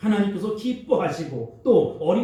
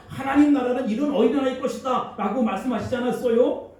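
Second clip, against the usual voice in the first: higher, indignant retort to the elders; defiant talking back; 4 semitones higher than usual. Retold or imitated. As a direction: argue back as if they should know better. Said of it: "대드는 분들이 있어요". (높은 목소리로 따지듯 대드는 말투)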